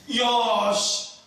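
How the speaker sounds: high, loud burst of admiration; acted-out gushing praise, pitched right up; effusive praise. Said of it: "이러면서 막 칭찬을 이렇게 이빠이 받았어요".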